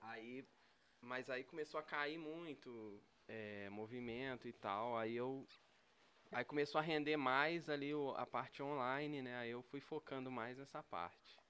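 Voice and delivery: talking while chewing; speaking around a bite of food; mouth full. Real, not acted. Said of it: "boca cheia que aqui não tem".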